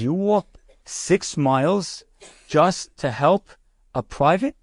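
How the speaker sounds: slow, spaced-out incredulous question; retold astonishment, slowly measured out; mild disbelief. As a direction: act out a general taking it in phrase by phrase. General amazed at rabbi's long walk.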